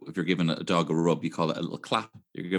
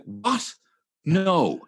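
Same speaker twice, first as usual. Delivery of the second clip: surprised friend; 9 semitones higher than usual. Retold or imitated. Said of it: "And he's like".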